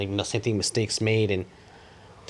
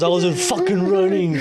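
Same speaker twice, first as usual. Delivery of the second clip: high, louder imitated kid protesting; mock kid yell; 8 semitones higher, 5 dB louder than usual. Clerk expecting a kid's denial, high mock yell. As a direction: shout it like a defiant kid. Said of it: "all you heard was".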